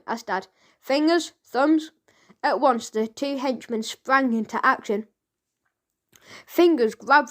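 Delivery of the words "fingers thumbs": summoning call. A narrator's reading. Boss summoning henchmen.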